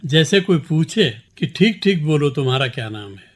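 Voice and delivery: measured, deliberate poem recital; poem recitation. Acted. Poet reciting his poem to the interviewer, measured recitation. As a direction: recite each line to the listeners with clear weight.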